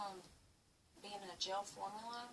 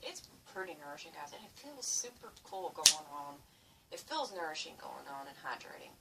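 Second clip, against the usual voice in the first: runny nose; 3 semitones lower, 4 dB louder than usual. Real, not acted. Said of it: "My nose is running".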